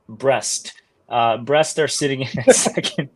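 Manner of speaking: breaking into laughter mid-sentence; trying to keep a straight face and failing; laughing. Real, not acted. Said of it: "I'm gonna say this with a straight face".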